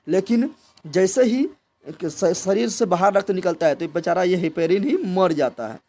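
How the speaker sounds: teacher dramatising that heparin dies once blood leaves the body; dramatic buildup. Acted. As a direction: stretch it out as a big reveal. Dramatic turn in explanation.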